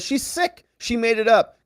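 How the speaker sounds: imitating Trump. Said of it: "Trump says".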